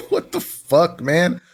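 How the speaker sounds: high laugh breaking into the words; laughing disbelief. Real, not acted. Co-guest mocking the screenshot someone took, laughing in disbelief.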